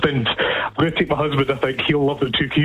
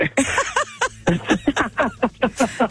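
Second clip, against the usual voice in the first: giddy laugh; 10 semitones higher than usual. Real, not acted. Caller laughs giddily at winning.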